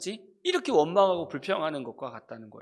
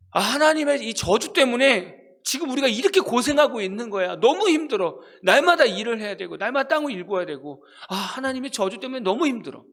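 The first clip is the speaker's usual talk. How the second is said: higher, louder weary grumbling; mock complaining; 4 semitones higher, 3 dB louder than usual. People of Noah's time grumbling, higher and weary. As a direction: sigh out a tired complaint against God. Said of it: "이런 마음을 갖고 있었다는 거예요".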